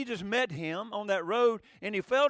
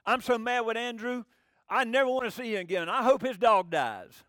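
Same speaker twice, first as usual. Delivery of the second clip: put-on mad little boy; 3 semitones higher, 6 dB louder than usual. Boy complains to his mama about Andrew, mock sulky. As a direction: pout it out like a cross little kid. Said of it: "he was mad with his little".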